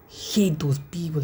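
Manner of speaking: slow hushed whisper. Real, not acted. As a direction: whisper it slowly. Venting disgust at people.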